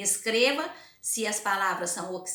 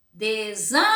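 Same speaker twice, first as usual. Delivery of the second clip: Desânimo with SÂ stretched long and loud; stress on SÂ; 9 dB louder than usual. Shown as a demonstration. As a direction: hold the SÂ of Desânimo. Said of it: "vão ler em voz alta".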